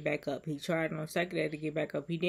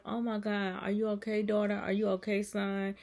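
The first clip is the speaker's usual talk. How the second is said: a touch higher, caring check-in; mild nurturing concern; 3 semitones higher than usual. Acted. Jesus checking on a crying daughter or son, nurturing. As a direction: gently fuss over a child, slightly raised pitch. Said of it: "he's really being nurturing to you".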